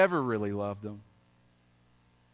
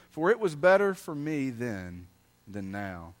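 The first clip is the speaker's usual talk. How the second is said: solemn reading from the pulpit; scripture reading. Acted. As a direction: read the verse as God's own words. Reads scripture aloud.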